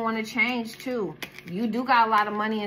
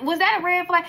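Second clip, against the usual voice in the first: mock clueless question; 9 semitones higher, 8 dB louder than usual. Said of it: "You be like".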